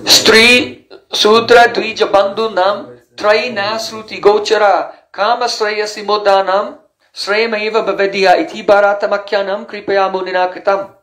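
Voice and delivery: measured, slightly slowed recitation of a shloka; Sanskrit verse recitation. Shown as a demonstration. Teacher quoting a Purana verse to the class, measured recitation. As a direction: recite the verse with care, line by line.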